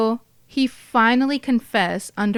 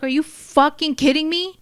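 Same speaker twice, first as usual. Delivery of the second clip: hammed-up outrage, high-pitched; livid; 7 semitones higher, 4 dB louder than usual. Narrator imagining opening the lockbox to little cash, livid. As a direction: act out indignant disbelief at a rip-off. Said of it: "I would be livid".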